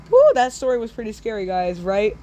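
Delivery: fast upbeat "woo"; quick cheerful reaction after a spooky tale; excited wrap-up. Real, not acted. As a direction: rush it out like a hyped host. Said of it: "host reacts after story".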